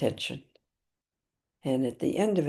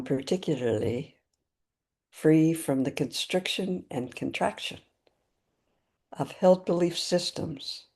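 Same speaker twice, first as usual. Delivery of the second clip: measured, deliberate prayer with long pauses between phrases; spoken Buddhist aspiration prayer, evenly paced; prayer recitation. Real, not acted. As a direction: recite a refuge vow phrase by phrase, unhurried. Recites refuge and intention prayer.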